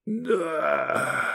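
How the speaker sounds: soft, choked wheeze under a foot on the throat; wheezing. Acted. The prisoner wheezing an answer to Iskander. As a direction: force it out with no air. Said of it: "просипел Бог".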